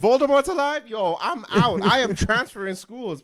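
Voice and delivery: high, loud mock panic; hammed-up alarm, ready to flee; panicked. Character panicking, fleeing.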